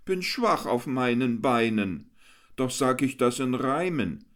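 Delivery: a hammed-up pitiful moan in verse; whiny declaiming. A narrator's reading. Jester whines his hungry rhyme to the crowd, hammed-up. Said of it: "deklamiert mit weinerlicher Stimme".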